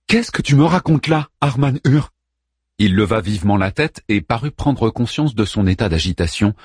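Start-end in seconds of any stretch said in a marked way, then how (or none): 0.1-2.1 high, loud furious demand. Acted. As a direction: demand it, fuming. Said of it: "bel et bien furibonde".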